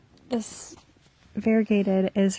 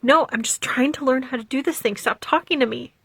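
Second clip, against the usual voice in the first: quicker, mildly irritated retold retort; cranky retort; 3 semitones higher, faster than usual. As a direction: retell being cranky and fed up. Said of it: "you seem cranky".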